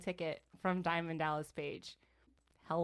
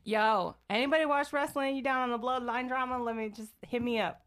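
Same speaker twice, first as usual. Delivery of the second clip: mock bro voice; 4 semitones higher than usual. Sister pretending to call out to wrestling fans, mock bro. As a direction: play a wrestling fan hitting up strangers. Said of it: "she spoke in tongues right there".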